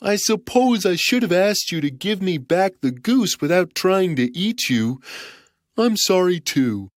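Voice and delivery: put-on forgive the boy; gentle giant. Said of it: "said the giant".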